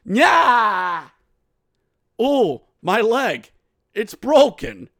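hammed-up wail of a faker; mock pain cry. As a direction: cry out as if the leg is broken, overacted. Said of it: "and he goes".

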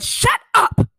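imitating a shout. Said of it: "Mama Sissy said".

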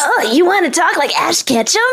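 a hint of an anime hero; lightly voiced young anime hero; anime boy voice. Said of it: "your Ash Ketchum anime protagonist voice".

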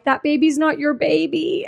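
mock-frantic challenge; retold accusation. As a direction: imitate an alarmed confrontation. Heroine confronts woman over baby.

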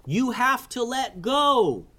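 put-on high boyish voice calling upward; yelled up. Kaleo calling up to Kavi in the air: high urgent yell. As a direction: call out high to a friend hanging above. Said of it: "yelled Kaleo".

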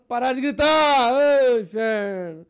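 loud, slow, exasperated yell; exasperated shout. Retold or imitated. Old woman yelling at him on the plane, exasperated shout. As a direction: yell out fed up with the noise. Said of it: "Aí ela".

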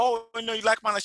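high-pitched, excited mock question; imitated friend's high, eager reaction; imitating flattered friend. Friend wrongly takes the compliment.

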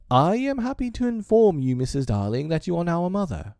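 high-pitched child playing a formal father; high, mock-important little boy; boy imitating his father. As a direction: announce it like a boy aping his dad. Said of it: "in such a tone as Mister Darling himself".

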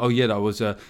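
hesitate, then draw out the ironic punchline; Alan Partridge. Retold or imitated. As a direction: caricature of an older boomer guy. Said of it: "they'll then adopt that voice".

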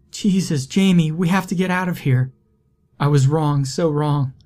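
high, fast, panicked plea; panicked, begging him to flee; frantic fear. Acted. Morgan panicked after waking.

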